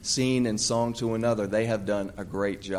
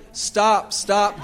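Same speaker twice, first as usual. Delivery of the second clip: raised high, loud stop call; 9 semitones higher, 8 dB louder than usual. Shown as a demonstration. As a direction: shout stop stop. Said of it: "Raise your hand like this and say".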